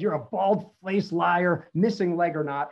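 drawn-out mock-indignant accusation; retold outrage, words stretched out. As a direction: slowly lay into the liar, playing the outraged brother. Angry brother's accusation in anecdote.

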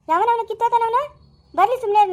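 high, scornful outburst; indignant anger. Acted. Relative vowing to face the ex, indignant. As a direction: fling the insult out in outrage.

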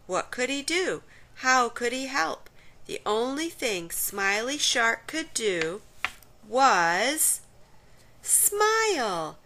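lively storybook read-aloud, sing-song rises; children's story narration. A narrator's reading. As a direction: read it like a bedtime picture book for kids. Picture book read aloud to children.

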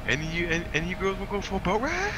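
mock sleazy come-on. Man propositions girl on boat.

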